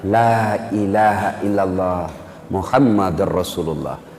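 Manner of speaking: a dying man forcing out the creed; dying words. Acted. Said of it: "dengan susah payah mengucapkan".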